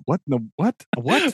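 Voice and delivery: baffled rising what, what; mock bewilderment, pitch climbing; confused Bilbo. Bilbo baffled by the owl-call order, rising confused what. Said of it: "Bilbo's sitting there going".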